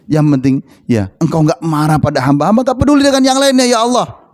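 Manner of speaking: acted supplication, swelling upward in pitch; pitiful prayer. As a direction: start humbly, then rise into urgent imploring. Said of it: "Rasulullah mintanya begitu".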